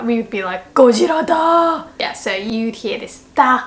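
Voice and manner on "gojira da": high, louder alarmed cry; surprised. Shown as a demonstration. Townsperson sees Godzilla arrive, high alarmed cry. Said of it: "Godzilla comes to a town".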